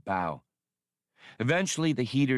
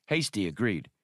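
plain reading voice

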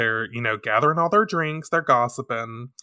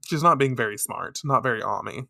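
ordinary delivery

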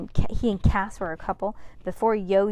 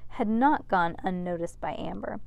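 ordinary delivery

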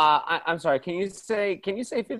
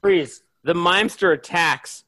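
loud announcement; 5 dB louder than usual. Acted. Narrator announces attack.

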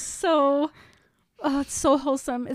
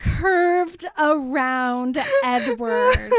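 mock scandalized; 4 semitones higher, slower than usual.

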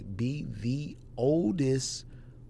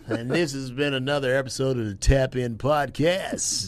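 lightly voiced radio host sign-off; a hint of radio announcer; 3 dB louder than usual. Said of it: "I'm about to use this radio voice".

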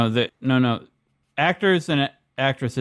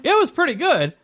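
imitating the keen take; 13 semitones higher than usual. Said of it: "I think the second one".

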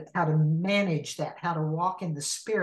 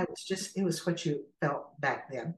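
mildly softened, tender retelling; understated, gentle reassurance; 4 dB quieter than usual. Retold or imitated. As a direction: say it gently, as a kind explanation. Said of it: "Jesus just was so gentle to say".

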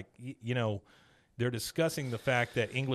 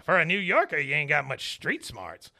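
hammed-up old Texan; Cotton sneering; 3 semitones higher, 4 dB louder than usual. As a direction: needle him. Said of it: "He says".

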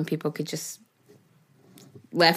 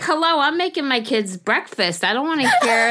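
higher-pitched "I'm busy here" protest; mock exasperated rebuff; 5 semitones higher than usual. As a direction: brush them off with playful indignation. Acted morning rebuff to partner.

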